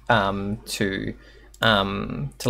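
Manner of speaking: normal talking voice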